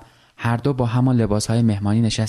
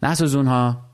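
mild mock call from a distance, higher; wife calls from the shower not to burn the fish, a mild raised call; 4 semitones higher than usual. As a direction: lightly call out a warning from the bathroom. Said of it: "از توی حمام داد زد".

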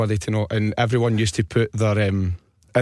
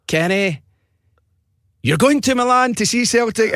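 much higher, louder radio-host announcement of the prize; excited presenter; 11 semitones higher, 3 dB louder than usual. Retold or imitated. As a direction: burst out with the big news like a game-show host. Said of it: "pretended to be this presenter".

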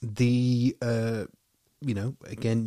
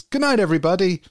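announcer sign-off; 7 semitones higher, 4 dB louder than usual. Retold or imitated. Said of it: "Frank sort of says".

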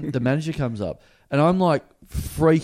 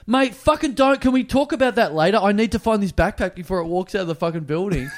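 mock urgent; 5 semitones higher than usual. Urgent retold interruption.

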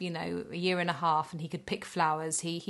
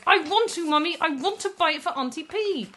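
high, insistent child imitation; serious small boy; 10 semitones higher, 5 dB louder than usual. Boy insisting to Mummy on his gift, high serious voice. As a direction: plead earnestly like a little boy. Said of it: "he was very serious about this".

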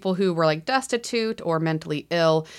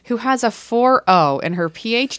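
proud boast; 6 semitones higher, 7 dB louder than usual. Real, not acted. Boasting to husband.

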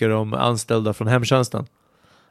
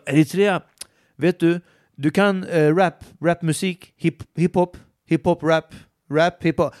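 higher, stumbling excited listing of rap and hiphop; eager mock enthusiasm; 5 semitones higher than usual. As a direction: overeager to connect with the student. Instructor eagerly name-drops hiphop.

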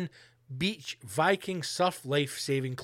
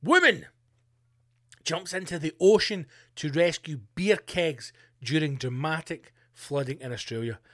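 dramatic headline. Shown as a demonstration. Podcaster rereading the headline for effect, a dramatic announcer read. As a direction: boom out the headline like a news trailer.

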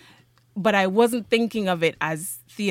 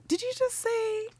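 stunned disbelief; 10 semitones higher, 5 dB louder than usual. Retold or imitated. Newly cast student questioning the tutor, stunned disbelief. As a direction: check it incredulously, acting out the shock.

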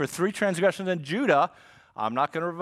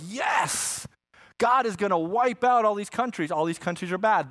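raised-pitch mock celebration; imitated gloating cheer; 5 semitones higher than usual. Preacher voicing Israel hearing of enemies' punishment, mock gleeful cheer. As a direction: cheer as if your rivals are doomed.

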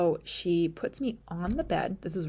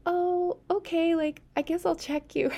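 high, louder startled nurse; surprised nurse; 12 semitones higher, 4 dB louder than usual. Retold or imitated. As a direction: play the nurse caught off guard, louder. Nurse's surprised reaction, voiced high.

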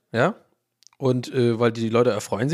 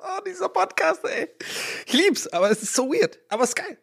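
giggly high voice. Real, not acted. High laughing exclamation.

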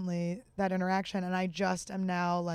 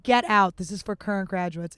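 much louder burst on the first words, easing off; retold yell; 8 dB louder than usual. Teacher throwing a former student out, retold yell. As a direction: imitate a teacher yelling someone out. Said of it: "and yelled at me".

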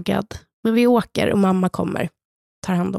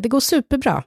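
higher, bright put-on reassurance; fake cheerful; 5 semitones higher than usual. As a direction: pretend everything is fine. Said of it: "så säger jag". (låtsat glad)

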